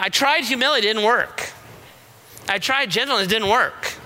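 lightly put-on whine of protest; mock complaint. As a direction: imitate someone giving up after one try. Voices people who gave up trying.

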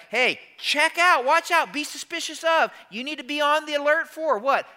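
high-pitched urgent holler; yelling a warning. Retold or imitated. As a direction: call out an alert, loud and high. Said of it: "He kinda yells like".

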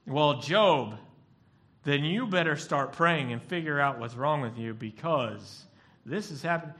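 hammed-up scold demanding he pray; mock scolding. Job's friend scolds Job to start praying, loud.

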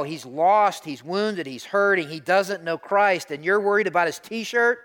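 loud, high, building outburst; retold indignant yell. Pastor wanting to yell at the man who scolded the boy, an indignant yell. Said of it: "I wanted to yell".

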